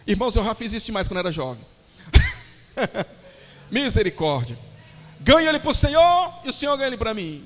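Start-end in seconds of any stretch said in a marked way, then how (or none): 5.2-7.4 higher-pitched teasing imitation; mock lovestruck youth. Young believer bargaining over a crush, mock hopeful. Mocking young girls' romantic reasoning.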